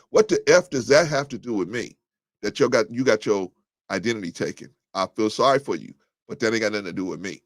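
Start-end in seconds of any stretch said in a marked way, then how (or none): 0.1-2.0 a touch of street slang delivery; hood style. Shown as a demonstration. Host to chat, repeating it hood style. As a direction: say it like they say it in the hood. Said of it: "That's how they say it in the hood".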